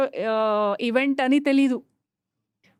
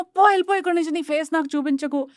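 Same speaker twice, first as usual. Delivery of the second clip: a sharp burst of a mock yell; angry dismissal; 5 semitones higher, much faster than usual. Depressed new mother driving her husband away, mock angry.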